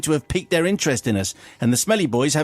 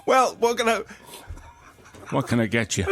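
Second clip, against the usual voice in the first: smooth seductive purr; silky smooth purr; 8 semitones higher than usual. Retold or imitated. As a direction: purr it like a ladies' man. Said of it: "He purred in his silky smooth tones".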